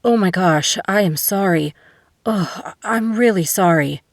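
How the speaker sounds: flustered apology. A narrator's reading. Apologizing after smashing into a woman.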